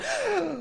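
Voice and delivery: high, soft intake of breath; crowd's gasp before cheering. Acted. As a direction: gasp like an amazed audience. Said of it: "There's a genuine cheer".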